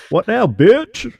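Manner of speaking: high, slow mock taunt; taunting alien. Alien gloating at the president, high and slow. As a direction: drag it out, high and smug. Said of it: "they're in the ocean".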